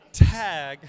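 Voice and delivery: loud, startled retold question; shocked. Pastor replaying his shock at the officer asking for a tag. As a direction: blurt it out in disbelief.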